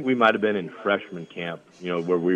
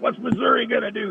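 high-pitched mock coach tirade; retold yelling; 14 semitones higher than usual. Coach going ballistic on his defense, high mock yelling. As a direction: imitate a coach screaming at his players, pitch way up. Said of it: "he's yelling and screaming at him".

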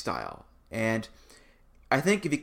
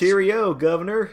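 hammed-up British accent, higher and louder; mock British accent; 7 semitones higher, 6 dB louder than usual. Co-host mocking a fake British wrestler gimmick, hammed-up British accent. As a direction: toss off a cartoon British accent for a laugh. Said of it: "and he tried a British accent".

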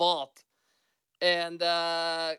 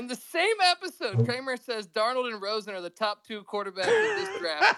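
laughing; 4 semitones higher than usual. Real, not acted. Laughing while recounting bad take.

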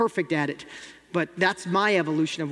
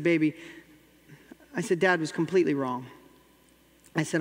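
tender apology; 3 semitones lower than usual. Retold or imitated. Father apologizing on one knee.

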